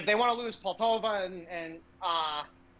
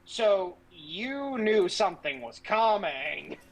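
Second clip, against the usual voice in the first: mock realization; 2 semitones higher, much slower than usual. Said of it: "it's like".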